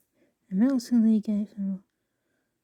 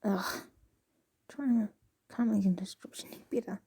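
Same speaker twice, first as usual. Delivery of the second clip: whispering; 7 dB quieter than usual. Real, not acted. Frustrated aside to self.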